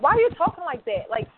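incredulous, teasing parent voice; mocking parent. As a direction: scoff at the child's interests. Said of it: "talk to their child like".

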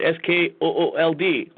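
S K O O L D, each letter slow and separate; slow sarcastic spelling of S K O O L D; spelled out slowly. Shown as a demonstration. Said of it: "spelled with a K".

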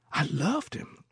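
put-on high, mournful old woman's voice; old singer of spirituals. A narrator's reading. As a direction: lift it high like a moan. Old woman confesses love.

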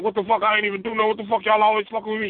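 high-pitched indignant rant; mock an outraged guy mouthing off to the cop; mad rapper. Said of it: "the mad rapper".

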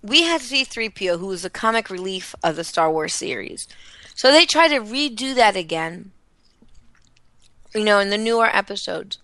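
chewing ice while talking; ice in mouth. Real, not acted. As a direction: talk around a mouthful of ice. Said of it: "Sorry, I'm trying to not chew my ice too loudly".

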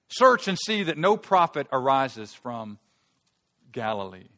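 loud, slow scornful order; scornful Pharisees. Acted. Pharisees ordering Nicodemus to search, loud and slow in scorn. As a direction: lean on search with contempt. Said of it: "They replied".

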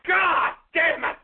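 furious, demanding the mic; angry yelling. Real, not acted. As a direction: yell it out in frustration.

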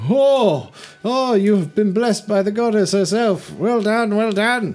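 high, loud, gushing praise; Olwen the bobcat, high and gushing. Acted. Bobcat praising the player, high and gushing. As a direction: gush like a bubbly bobcat priestess. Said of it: "Olwen goes".

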